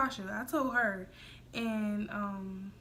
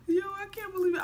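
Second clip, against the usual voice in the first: excited disbelief; 9 semitones higher, 3 dB louder, faster than usual. Retold or imitated. Shock while driving.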